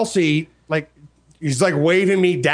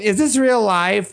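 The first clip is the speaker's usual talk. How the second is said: viral-video bewilderment; 4 semitones higher, slower than usual. Retold or imitated. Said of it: "it was like that whole".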